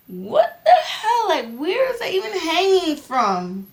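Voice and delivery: high, loud laughing disbelief; shocked laughing. Real, not acted.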